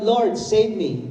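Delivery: slow retold cry. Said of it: "He cried out".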